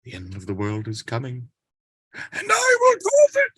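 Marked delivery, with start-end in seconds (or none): 2.1-3.5 a possessed prophet roaring doom; booming shout. Acted. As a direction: shout it out, very high and loud. Possessed man proclaims the apocalypse.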